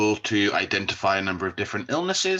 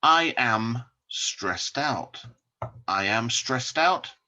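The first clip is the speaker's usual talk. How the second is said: slow model sentence; slower than usual. Shown as a demonstration.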